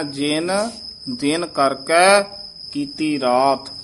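ਜਿਨ stressed, kept apart from ਦਿਨ; weight ਜਿਨ so it is not heard as ਦਿਨ; careful recitation stressing ਜਿਨ. Shown as a demonstration. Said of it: "ਜਿਨ ਤੇ ਯਮਕ ਲਾ ਕੇ".

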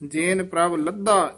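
ਜਿਨ ਪ੍ਰਭ ਲੱਦਾ closed with a fall; measured phrase ending in a stop after ਲੱਦਾ; pause after phrase. Shown as a demonstration. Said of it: "ਇੱਥੇ ਵਿਸਰਾਮ ਹੈ".

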